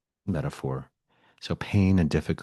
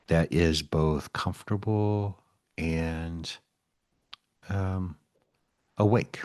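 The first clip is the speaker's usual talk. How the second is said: unhurried meditation guide with long pauses; lightly held guided-meditation voice. Acted. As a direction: ease listeners gently into stillness, leaving space between phrases.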